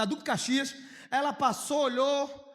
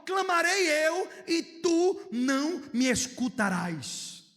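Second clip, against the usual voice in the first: slow lament; 5 semitones higher, much slower than usual. Retold or imitated. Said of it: "ele começa assim".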